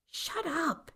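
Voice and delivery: sharp, high hissed "shut up"; angry hiss. A narrator's reading. Mother hisses at her daughter to shut up. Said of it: "Cece hissed at her".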